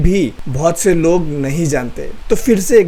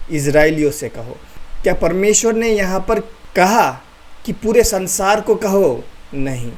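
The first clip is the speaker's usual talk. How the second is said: call and response drill; 3 semitones higher than usual. Shown as a demonstration. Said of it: "पांच बार मेरे साथ बोलिए".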